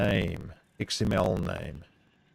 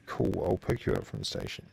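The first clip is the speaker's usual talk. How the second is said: hushed whisper off to the side; whisper, voice dropped; 5 dB quieter than usual. Real, not acted. Whispered aside to someone off-stream.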